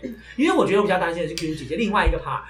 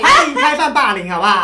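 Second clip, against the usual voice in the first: laughing invitation; 4 semitones higher, 9 dB louder than usual. Real, not acted. Jokingly inviting bullying.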